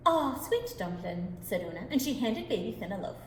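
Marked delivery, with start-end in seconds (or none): 0.1-1.4 soothing mother. Acted.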